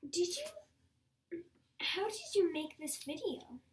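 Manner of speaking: whispered question. Real, not acted. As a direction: whisper it shyly.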